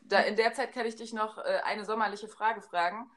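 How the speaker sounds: talking right after a sip; while sipping a drink. Real, not acted. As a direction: speak with a drink in the mouth. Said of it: "Ich muss grad mal kurz einen Schluck trinken".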